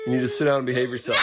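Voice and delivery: fast, loud firm command; stern order. Real, not acted. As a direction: lay down the law fast. Parent commanding raging son.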